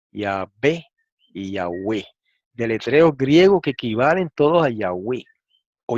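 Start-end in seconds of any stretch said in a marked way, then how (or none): 0.1-0.9 "Yahvé" said as ya-BÉ, with a b; variant with B. Shown as a demonstration. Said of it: "se lee así como lo voy a leer". 1.5-2.1 "Yahweh" said as ee-ya-WE, lower and softer; variant reading. Shown as a demonstration. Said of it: "se lee así como lo voy a leer".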